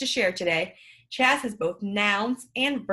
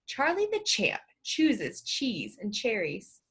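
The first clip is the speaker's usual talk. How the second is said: careful slow reading; slower than usual. Shown as a demonstration. Models tongue twister slowly first.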